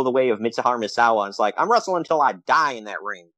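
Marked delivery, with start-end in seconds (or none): 1.6-3.3 put-on southern accent. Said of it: "I gave him a southern accent".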